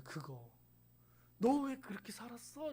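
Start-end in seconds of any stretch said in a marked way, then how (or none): 1.4-2.7 reproach. Pretend. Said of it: "이렇게 안 물어보시고".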